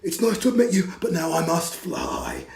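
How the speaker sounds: spluttering dragon. Acted. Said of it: "he spluttered".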